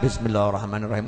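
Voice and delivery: pious wife softly blessing each act; soft devout murmur. Retold or imitated. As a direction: murmur it reverently. Pious woman's bismillah.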